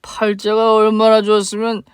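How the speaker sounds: put-on slow, slurring drunk man, bitter and loud; a sloppy drunk spitting out old grudges; drunk father. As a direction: drunk father accusing the woman he mistakes for his wife. Drunk father confronts ex-wife.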